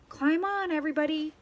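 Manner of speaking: high excited call to all; shouted. A narrator's reading. Duck calls the animals aboard, shouting. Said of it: "shouted Duck".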